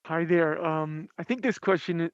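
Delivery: talking through a face mask; muffled, covered mouth. Real, not acted. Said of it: "I've got a mask on".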